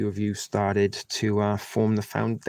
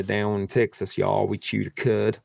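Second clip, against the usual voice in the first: southern accent. Shown as a demonstration. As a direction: lightly put on a Southern Texas accent. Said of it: "southern accent".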